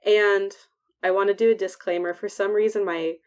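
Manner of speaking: hissing whistle on every s; whistling s. Real, not acted. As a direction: let the s sounds whistle. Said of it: "I'm whistling when I talk".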